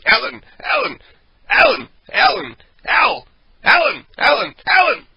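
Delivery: very high, loud cartoon groundhog squeal; squeaky groundhog. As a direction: squeal the name like a little puppet groundhog. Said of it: "the little groundhog, like, keeps going".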